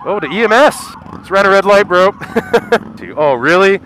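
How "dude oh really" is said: exasperated disbelief. Real, not acted. Driver blocks lane.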